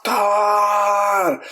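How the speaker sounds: sharp call across the room; calling out a name. Retold or imitated. Woman calling out to Carter, a high call.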